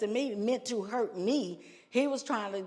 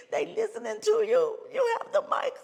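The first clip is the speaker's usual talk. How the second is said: high, laughing imitation; high-pitched lady's voice, laughing; voicing the lady; 13 semitones higher than usual. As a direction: tell her she has the mic.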